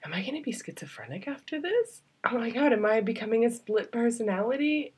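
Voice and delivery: a light mock panic at going crazy; anxious self-questioning. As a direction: rattle it off in mock alarm. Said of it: "I was sitting there going".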